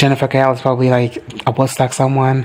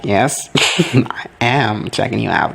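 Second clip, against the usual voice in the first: slow, lower-pitched mock flirting; imitated flirty confidence; 3 semitones lower than usual. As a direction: draw it out low, imitating a flirt. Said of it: "Rio's like".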